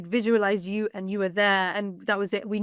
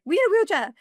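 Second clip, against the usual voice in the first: retold shout; 9 semitones higher, 4 dB louder than usual. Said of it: "you shouted to a random gentleman".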